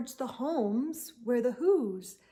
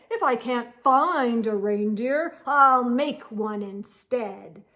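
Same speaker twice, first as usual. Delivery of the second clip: louder, firm answer; stubborn Grinch; 5 dB louder than usual. Acted. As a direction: declare it, no doubts.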